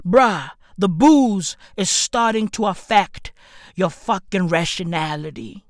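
ordinary talk

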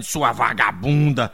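bronca encenada, lenta e pesada; marido gritando brabo. Acted. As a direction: acuse devagar, fingindo fúria. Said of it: "foi logo gritando". (marido brabo, acusando pausadamente)

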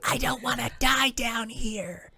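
hammed-up fake crying; mock wail. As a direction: whimper it like a fake sob.

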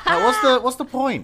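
laughing. Real, not acted. Laughing after own joke.

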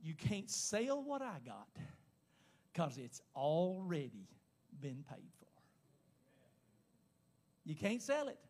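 slow right down and let it sink in; solemn hush. Real, not acted. Solemn drop at the sermon's point.

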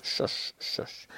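whispered, hushing the storm; gentle whispered shush; soft shush. Retold or imitated. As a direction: hush it like calming a child. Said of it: "Jesus just simply says".

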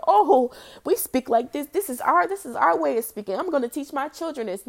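mock defensive. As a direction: protest it loudly, mimicking their excuse. Mock quote of those defending Ebonics.

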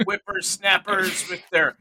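put-on slow, loud grumbling old-timer; old prospector. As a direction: grouse about young whippersnappers. Mocking kids' slang as an oldster.

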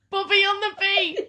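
high, loud radio DJ hype. Pretend. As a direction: announce it like a club DJ. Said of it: "That sounds like a D J".

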